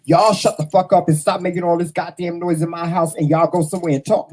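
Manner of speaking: half-hearted cussing out; mock rude version. Shown as a demonstration. What he didn't say to the kids, mock angry rant. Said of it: "No, I didn't say it like that".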